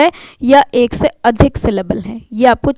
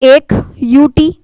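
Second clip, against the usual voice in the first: each letter of यू टी आई एफ यू एल slow and separate; spelling out slowly; 3 dB louder, much slower than usual. Shown as a demonstration. Teacher spelling beautiful for students, slowly. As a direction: spell it out for the class. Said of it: "देखिए".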